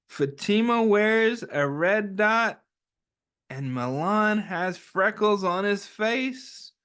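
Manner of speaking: gentle, slow picture-book read-aloud; reading to children. Acted. Teacher reads the picture book aloud to the class, gently. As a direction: read it like storytime for little ones.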